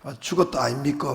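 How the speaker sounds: light imitation of Gyeongsang speech, a bit quick; mock Gyeongsang delivery; 경상도 사투리 흉내; Gyeongsang dialect. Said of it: "경상도 말로는".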